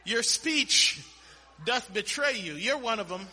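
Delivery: loud, mildly acted accusation; accusing. Preacher plays the girl confronting Peter, loud accusation. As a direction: point the finger, hitting "speech" hard.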